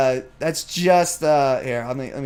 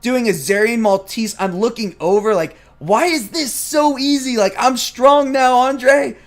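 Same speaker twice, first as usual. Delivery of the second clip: amazed and excited; 4 semitones higher than usual. Retold or imitated. Bragging to Andre about new strength, amazed. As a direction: marvel at how easy it feels. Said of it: "And I'm like".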